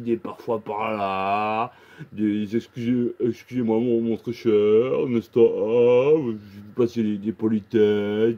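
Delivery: grandiloquent et lent, comme un président; pérorer devant ses électeurs; discours pompeux. Retold or imitated. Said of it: "vous étiez très éloquent". (orateur pompeux et solennel)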